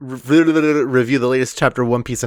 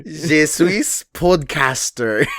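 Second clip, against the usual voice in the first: mock French; 3 semitones higher, slower than usual. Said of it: "French accents".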